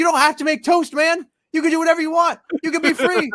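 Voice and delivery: high, loud, pleading yell. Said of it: "yelling at a toaster".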